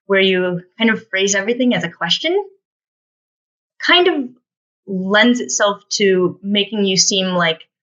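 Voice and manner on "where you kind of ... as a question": rising tune on "question"; upspeak. Shown as a demonstration. Presenter illustrating a habit to avoid, upspeak. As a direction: end on "question" as though asking. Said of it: "the kind of upspeak".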